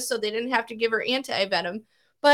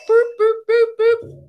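high mower boops; 8 semitones higher, 8 dB louder than usual. Retold or imitated. Imitating mowing noise.

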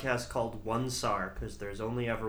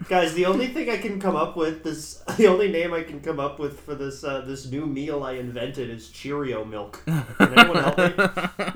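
louder pleading, laughing through it; mock pleading; 7 dB louder than usual. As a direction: beg for help with fake urgency. Mock plea for meal name.

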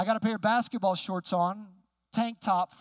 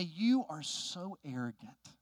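slow, drawn-out imitation of an affronted man; mock indignation, stretching out each word; retold accusation; 3 semitones lower, slower than usual. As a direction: accuse slowly, as a retold insult.

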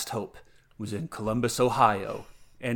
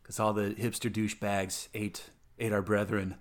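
sci-fi saga narrator; 3 semitones lower than usual. Acted. Last cicada telling the franchise's tale, lightly mock-solemn. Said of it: "like, science fiction franchise".

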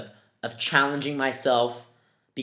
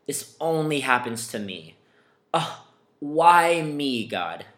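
whiny victim voice; 2 semitones higher than usual. Retold or imitated. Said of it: "I'm talking about".

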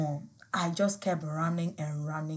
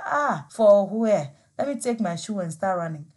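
panicked retort; 5 dB louder than usual. Retold or imitated. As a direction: blurt it out in fright. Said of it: "I said".

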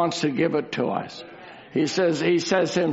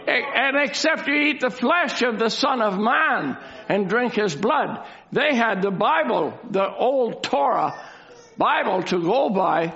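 full-voiced, declamatory sermon delivery; emphatic preaching; 3 semitones higher than usual. Real, not acted. Preacher to congregation about the crowds who left, emphatic preaching. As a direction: lean hard on each key phrase.

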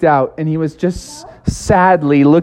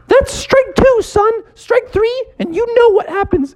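stern lifeguard. Acted. Lifeguard warns Froggy.

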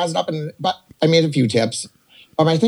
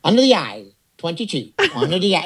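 bingo caller; 4 semitones higher than usual. Pretend. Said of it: "I would be a bingo caller".

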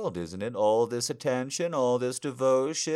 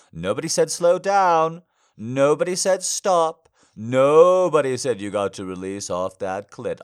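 commanding; 5 semitones higher, 9 dB louder than usual. Acted. Commanding partner not to stop.

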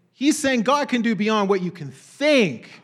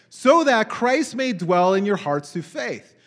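slow scripture reading; 3 dB louder, slower than usual. Acted. Reads verse slowly.

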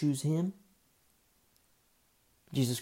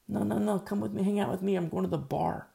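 loud coaxing; 7 semitones higher, 5 dB louder than usual. Acted. Friends urging Noah to drink.

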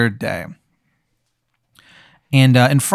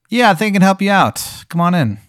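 higher-pitched, lightly crackly stranger; dry-leaves voice; 8 semitones higher than usual. Acted. Stranger inviting someone into the limousine, high dry-leaf voice. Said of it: "the sound it makes when you step on dry leaves".

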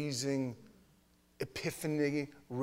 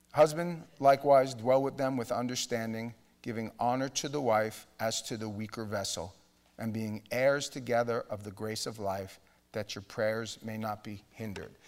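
reading Scripture; 2 semitones lower, 4 dB louder than usual. Acted. Pastor reading the verse to the congregation, measured. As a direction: read the verse with weight.

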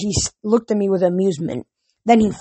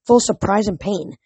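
animated audiobook reading; story narration. A narrator's reading. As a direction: tell the adventure with steady energy.

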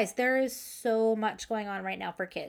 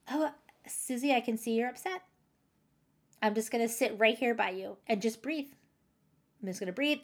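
put-on soothing a child; faster than usual. Shown as a demonstration. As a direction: settle her down gently, slowing to a breath. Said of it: "And you model that".

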